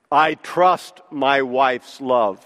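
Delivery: "trust" leaned on, spoken slow and low; slow it down and land on "trust"; "I trust my wife's love" with a heavy "trust"; stress on trust. Shown as a demonstration. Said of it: "It is the difference in a man saying".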